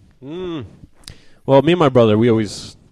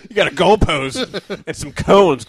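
laughing mock announcement; 7 semitones higher, slower than usual.

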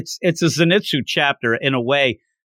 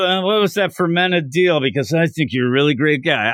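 put-on drunken slurring. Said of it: "talk this Tanjiro dialogue slurring it".

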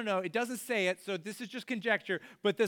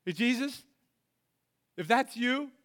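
a higher, louder call to Jesus; Peter calling out; 4 semitones higher, 3 dB louder than usual. Acted. Peter calling across the water to Jesus, raised voice. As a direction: dare him to call you out. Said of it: "And Peter says".

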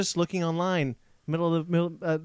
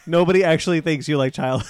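laughing; 6 dB louder than usual. Real, not acted. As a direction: tease him while cracking up. Laughing while teasing Ben.

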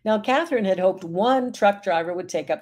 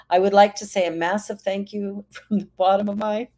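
choked up; 2 semitones higher than usual. Real, not acted. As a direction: voice catching while reading the mother's thanks. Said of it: "I'm getting all choked up here".

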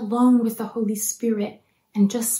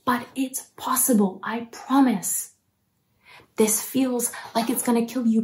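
confident reassurance. Retold or imitated. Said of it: "look you in the eye with all the confidence in the world, and to tell you".

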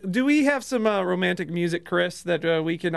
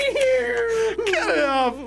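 breaking up with laughter; words squeezed out through laughter; laughing while talking; 13 semitones higher, much slower than usual. Real, not acted. Host cracking up.

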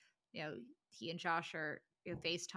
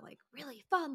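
fun voice; 6 semitones higher than usual. Shown as a demonstration. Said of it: "in this certain voice that".

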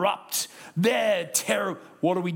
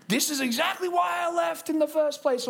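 mock outraged churchgoer; 8 semitones higher than usual. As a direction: blow up like a fed-up visitor. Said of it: "and you're like".

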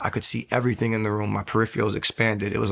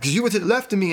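much higher, frantic reasoning; panicked, voice up high; freaking out; 10 semitones higher, faster than usual. Retold or imitated. Telling his ex the demon came from her side, frantic. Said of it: "I'm freaking out".

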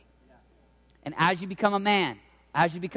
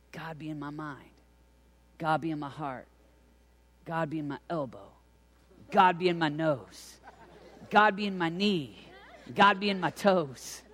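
put-on young son praying. Father imitating his six-year-old's bedtime prayer, lightly childlike and building. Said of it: "Dawson saying his prayer before he goes to bed".

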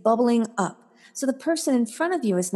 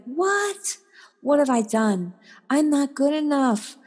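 lightly voiced child, higher and wounded; a hint of a bewildered kid; hurt child; 5 semitones higher than usual. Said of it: "that you're like".

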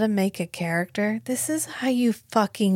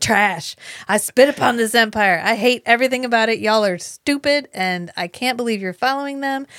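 a touch louder, contemptuous retelling; mock scornful rant; 2 semitones higher, 3 dB louder than usual. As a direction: denounce them all in a playful rant. Acting out preacher's scornful rant.

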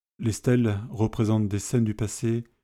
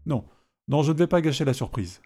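cheerful small homely voice; 4 semitones higher than usual. Acted. Small man teases about the ending.

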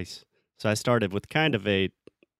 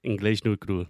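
Carioca accent. Shown as a demonstration. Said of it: "Did you just say Inglés No Crew with a Carioca accent?".

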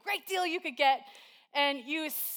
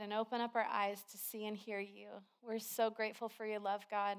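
prayer. Acted. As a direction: pray gently over the church. Leads prayer.

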